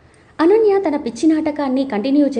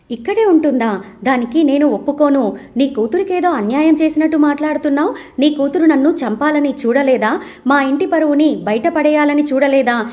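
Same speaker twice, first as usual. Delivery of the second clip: mildly raised, insistent retold refusal; said loudly. Daughter refusing to let Ananya stay, mildly raised voice. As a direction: push back a little louder, not shouting. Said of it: "అని లహరి గట్టిగా చెప్తుంది".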